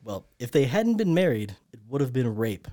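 lightly put-on English accent; English-accented quote, only half convincing; attempted English accent. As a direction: try out a loose English accent. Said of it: "that's definitely a new accent".

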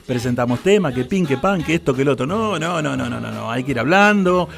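hoarse, low, worn-out radio voice; voice from beyond the grave. Real, not acted. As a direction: croak it out through a sore throat. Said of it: "con esta voz de ultratumba".

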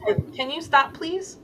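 exasperated pleading ask with a high rising "please?". Shown as a demonstration. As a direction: beg the inner voice to stop, lifting high on "please?". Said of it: "Like, kinda like that".

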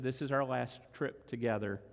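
grieving widow's words, softly tearful; retold in tears. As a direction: speak her words as if near crying. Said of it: "in great tears".

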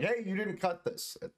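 high-pitched mock shout; yelling after the delivery guy; calling after someone.

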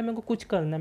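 a hint of a clueless kid repeating himself; mock confused student. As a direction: sound lost and unsure what you want. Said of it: "वो कह रहा है".

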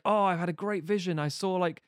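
a hint of a simple, starry-eyed juggler; naive dreamer. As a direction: gush about the vision like a wide-eyed fool. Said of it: "He's a very innocent individual".

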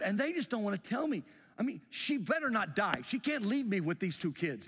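rising, frantic worry in his head; panicked inner voice. Retold or imitated. Husband in the van fearing for his wife, panicked. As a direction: spiral into panic, pitch climbing. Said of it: "I'm thinking to myself".

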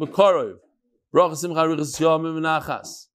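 brisk announcement read of the dedications; sponsor read. Acted. Lecturer to audience, reading the sponsors in announcer style.

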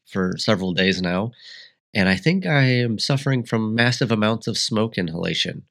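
stuffy nose from sniffles; congested. Real, not acted. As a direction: talk through congestion. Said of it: "forgive my sniffles".

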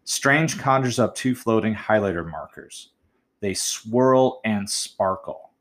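very slow, savouring each word; slow demo of "swirl and sparkle"; slow reading aloud. Shown as a demonstration. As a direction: read it slowly to let the alliteration sing. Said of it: "here's what I decided to write".

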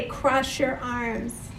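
soft, slow invitation; gentle instruction. Shown as a demonstration. Preacher inviting the congregation to cross arms, soft and slow. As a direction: guide them gently, slowly. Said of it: "that I would say".

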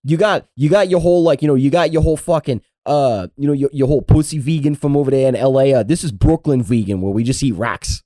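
put-on tough-guy Brooklyn accent. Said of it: "how was my Brooklyn accent there".

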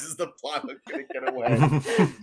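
giggling through the line; laughing. Real, not acted. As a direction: laugh as you repeat it. GM echoing the joke.

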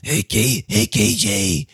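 high, raspy heavy-smoker aunt voice, fast at the end; Aunt Tammy impression. Nephew mimics his smoker aunt asking for cigarettes. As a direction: play the chain-smoking aunt begging for smokes. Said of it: "sounds like".

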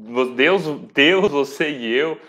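choking mid-sentence. Real, not acted. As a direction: voice catching from a choke. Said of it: "engasguei aqui".

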